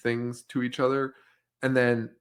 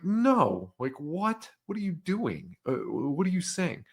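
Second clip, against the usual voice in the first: higher-pitched mock disbelief, questioning; incredulous cop; 6 semitones higher than usual. Cop questioning clueless teens, incredulous. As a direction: act out a baffled cop's disbelief.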